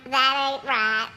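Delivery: put-on Southern accent. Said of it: "As they say down here in South Carolina".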